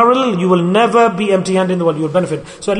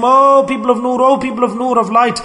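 higher, desperate begging cry; pleading scream; 4 semitones higher than usual. Retold or imitated. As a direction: beg for rescue from the fire. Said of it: "the first group will shriek out and scream".

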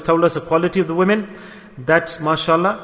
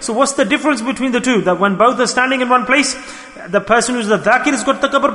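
laughing while preaching; 4 semitones higher than usual. Real, not acted. Mocking the pious dhakir, laughing.

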